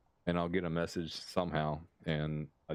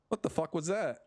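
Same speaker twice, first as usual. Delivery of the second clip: higher-pitched imitation of a baffled girlfriend; incredulous; 9 semitones higher than usual. Girlfriend questions his Irish accent at the drive-thru, incredulous. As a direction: retell a startled, incredulous demand, pitched well up.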